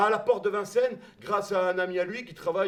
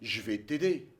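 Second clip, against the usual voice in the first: voix grave et posée de vieil homme; un vieux monsieur bonhomme, grave et lent; voix de Bertrand; 5 semitones lower than usual. Retold or imitated. Bertrand répond au jeune Belge. (imitation de Bertrand, voix grave et basse)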